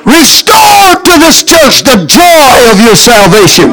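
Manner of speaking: shouted plea for joy; 1 shouted prayer. Real, not acted. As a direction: call it out over the church. Preacher calls out prayer.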